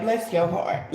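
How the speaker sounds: a hint of a grandma's backhanded bless your heart; condescending. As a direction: let it drip with polite pity. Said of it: "but like".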